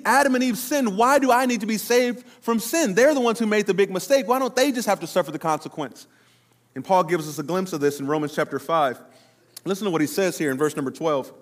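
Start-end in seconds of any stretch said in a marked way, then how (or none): 0.0-6.1 mock complaint. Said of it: "But you think".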